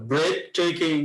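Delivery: "ব্রেথটেকিং" with weight on the first syllable; slow down and lean on the start of "ব্রেথটেকিং"; stressed key word. Shown as a demonstration. Teacher picks out the stressed words for students, stress on "ব্রেথটেকিং". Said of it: "যে stress গুলো ওরা দিল".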